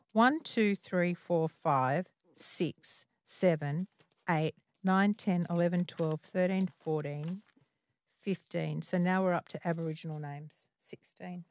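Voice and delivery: soft, half-voiced tallying; quiet self-directed murmur; counting to oneself. Real, not acted. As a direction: count under your breath. Host counts questions to herself.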